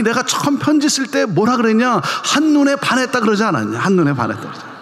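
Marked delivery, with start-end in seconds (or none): 3.8-4.7 한눈에 반했다 said lower, through a laugh; laughing retelling. Retold or imitated. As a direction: chuckle as you repeat 한눈에 반했다 그러지 않았냐. Punchline repeated through laughter.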